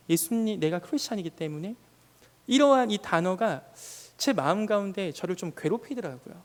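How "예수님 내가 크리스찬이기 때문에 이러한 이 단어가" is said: usual speaking voice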